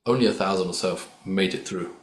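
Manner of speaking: ordinary delivery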